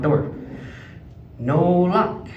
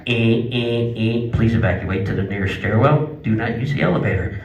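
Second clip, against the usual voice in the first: lower, droning alarm message; hotel alarm announcement; 5 semitones lower than usual. Retold or imitated. Hotel fire alarm blaring at him, flat loudspeaker voice. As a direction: mimic the evacuation loudspeaker. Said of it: "I hear".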